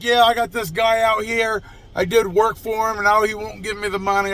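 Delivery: fake phone call. Mechanic bluffing a cop call to scare a customer, lightly put-on voice. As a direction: act out a pretend call to the cops. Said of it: "putting on this big-ass charade".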